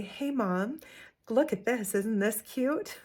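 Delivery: lightly voiced child, slow admiring lilt on cute; sweet admiring kid. Shown as a demonstration. Mom showing kids what to say instead, lightly sweet child voice. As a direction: model the nice way to ask, gently delighted. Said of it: "Can you just say".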